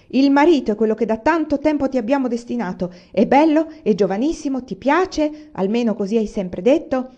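exasperated mother lecturing. Acted. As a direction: press her hard. Mother scolding daughter.

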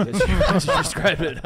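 laughing through the words, loud and high; giggling disbelief at a crude line. Real, not acted. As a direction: crack up while repeating it.

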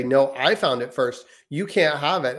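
lightly voiced sister snapping back; a hint of a bossy big sister; older sister retort. Daughter claiming the toy back from her brother, lightly voiced. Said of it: "And then my daughter will say".

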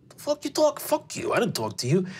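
testy character voice, dropping at the end; irritable older man. Acted. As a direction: turn on a stranger, affronted. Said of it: "looks back at you and says".

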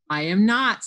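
loud, indignant denial; loudly. Acted. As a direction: protest loudly like an arguing child. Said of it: "said Alf loudly".

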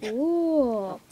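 whisper. Pretend. Kid whispers the last whoa.

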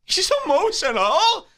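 high, mock-shocked gossip; mock outrage. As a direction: ham up the scandal. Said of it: "This is what I say".

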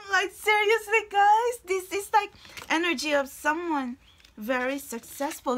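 excited. Real, not acted. Excited reading, shouting to viewers.

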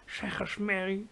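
strange strangled whisper; soft stifled whisper; choked whisper. Acted. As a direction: breathe it out, barely voiced. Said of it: "vreemd verstikt gefluister".

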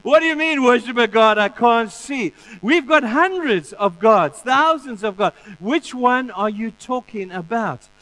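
high, loud mocking Pharaoh; scoffing Pharaoh. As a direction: laugh Moses off as Pharaoh. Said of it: "Pharaoh laughed and said".

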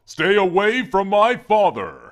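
a hint of a little girl voice. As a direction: sound like a small girl begging. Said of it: "What kind of little girl voice is that?".

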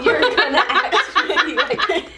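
laughing. Real, not acted. Laughing at the sour reaction.

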